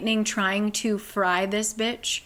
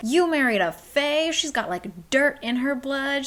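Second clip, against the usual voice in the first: going off; 5 semitones higher than usual. Retold or imitated. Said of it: "goes off".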